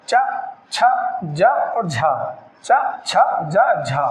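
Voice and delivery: च, छ, ज, झा slowly sounded; affricate demo. Shown as a demonstration. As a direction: sound च छ ज झ clearly for students. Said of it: "जैसे". (स्पर्श संघर्षी वर्णों का उच्चारण)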